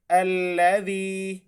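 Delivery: अल्लज़ी with the ज़ी stretched one alif long; long ya madda. Shown as a demonstration. Teacher showing the stretched vowel, slow and drawn. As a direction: draw the ज़ी out slowly. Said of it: "एक अलिफ की मिकदार खींच के, लंबा करके".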